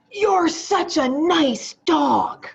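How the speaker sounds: high, slow, sing-song praise for a good dog; sweet praise. Retold or imitated. Teacher showing the class a sweet tone. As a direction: coo it like praising a pet. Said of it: "what were my words".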